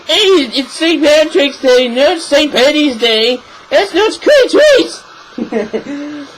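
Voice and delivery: high, loud, drawn-out Irish objection; mock Irish accent. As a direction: protest slowly in an exaggerated, high-pitched Irish accent. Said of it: "the Irish people will be like".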